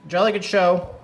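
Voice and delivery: high, loud posh-toned cheer; hearty booming country squire. Acted. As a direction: boom it like a jolly squire. Cheers his own knot success.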